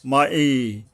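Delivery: "মা এই" recited with a distinct break before "এই"; careful hamza. Shown as a demonstration. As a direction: separate "এই" cleanly from "মা" as in recitation. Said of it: "উচ্চারণে সাবধান হতে হবে".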